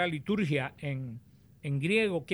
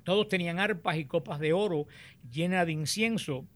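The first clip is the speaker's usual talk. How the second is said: solemn, measured Bible reading aloud; scripture reading. Acted. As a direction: proclaim the passage phrase by phrase, with deliberate pauses. Reads the scripture passage aloud.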